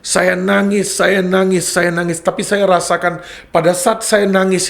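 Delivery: high, stronger emotional repetition; emotional, near tears. Retold or imitated. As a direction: let the feeling swell as you repeat. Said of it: "saya nangis kayak anak kecil".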